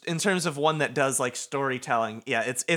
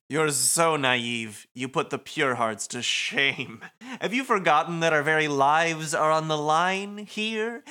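much higher, sly villain voice with a laugh; smug Motoi voice; 4 semitones higher than usual. Acted. Motoi mocks Rindo for staring, high sly taunt. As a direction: tease him like a grinning schemer.

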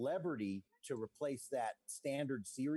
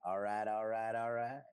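a touch lower, easy stoner charm; Matthew McConaughey impression; 5 semitones lower than usual. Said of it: "Matthew McConaughey's voice".

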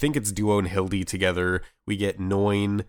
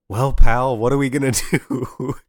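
loud, higher, hammed-up buddy voice with a laugh; chummy pilot talk; 4 semitones higher, 8 dB louder than usual. Host imitates pilot talking to war machine, hammed-up chummy. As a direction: play a pilot chatting to his pal. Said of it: "they're just talking to it, being like".

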